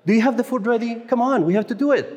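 retold angry demand. Lupita snapping at him while he prepares food, irritated. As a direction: snap at him like an irritated coworker. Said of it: "Lupita was angry".

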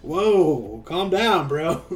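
laughing mock-scared bro voice; scared disciples. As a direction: play the disciples half-joking in awe. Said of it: "So disciples are even scared, like".

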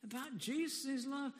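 slow, soft, sneering whisper of doubt; the nagging inner voice questioning his faith, slow and soft. Acted. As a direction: tempt him slowly and quietly, like a nagging doubt. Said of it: "a little voice says".

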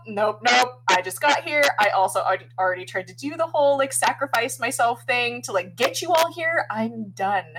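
high, loud, emphatic refusal; mock freak-out. Retelling how Deke balks at sacrificing himself, mock freak-out. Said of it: "Deke freaks out".

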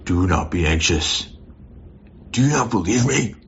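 imitating an impatient, disappointed teacher; harsh scolding Jesus. Preacher imitates the Jesus he once feared, mildly stern. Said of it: "But I don't think that's his tone".

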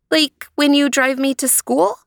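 put-on high, eager child's question; a small girl's bright guess; little girl voice. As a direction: pitch up for a three-year-old. Leanie, the child, asks.

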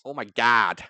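exaggerated American "Oh my God"; mock American accent. Showing friend how they sound, mock American accent. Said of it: "That's how you sound".

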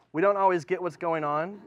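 ordinary talk

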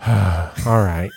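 put-on sigh, then give in like a let-down kid; upset kid. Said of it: "he was just so upset".

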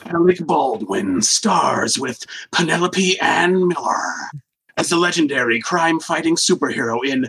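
slow, dramatic nineties trailer narrator; movie trailer voice. Acted. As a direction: read it like a cheesy movie trailer. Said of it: "I'm gonna do it in the trailer voice".

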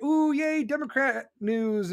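high-pitched fake delight; put-on giddy excitement; mock cheering. Media acted cheering Democrat news.

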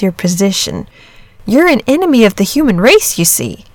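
lightly voiced boy, explaining carefully; a hint of an earnest youngster breaking awkward news.

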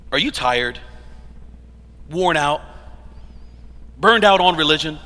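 salesy pitch-man question; infomercial voice. Acted. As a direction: sell it like a late-night ad. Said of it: "it almost sounds like an infomercial".

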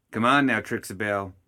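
through clenched teeth. Acted. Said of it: "Ma said through clenched teeth".

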